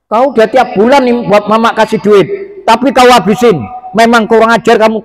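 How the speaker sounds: mock scolding of a wayward child; angry scolding. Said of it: "Tahu apa dia marah". (omelan ibu yang marah)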